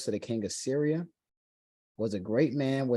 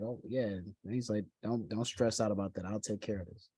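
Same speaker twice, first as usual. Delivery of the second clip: easy confidence; 2 semitones lower, 6 dB quieter than usual. Retold or imitated. Elisha reassuring the king about the leper, casually confident. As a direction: play it cool and sure, voice down. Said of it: "Elisha was very confident".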